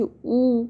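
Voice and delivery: او held long with lips pushed forward; rounded "oo". Shown as a demonstration. Teacher shows the ain's vowel, او long and rounded. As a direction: push the lips out for a slow, sustained او. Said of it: "اچھے سے ہونٹوں کو باہر نکالنا ہے".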